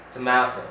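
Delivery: tomato said to-MAH-to; British tomato. Shown as a demonstration. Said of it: "But in British".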